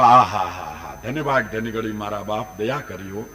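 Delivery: low, softened reverent greeting; lightly acted devotee's humble thanks; humble welcome. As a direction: voice drops in grateful devotion. Devotee humbly welcomes holy guests.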